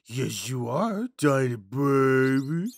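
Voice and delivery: slow cooing pet voice; drawn-out baby talk; baby talk to a rat. Acted. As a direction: coo to the little rat.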